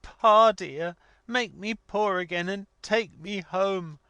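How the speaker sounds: put-on high-pitched, distraught young woman pleading; acted weeping outburst, high and imploring; passionate tearful cry. A narrator's reading. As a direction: beg desperately through tears, voice pitched right up. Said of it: "incoherent passion of tears".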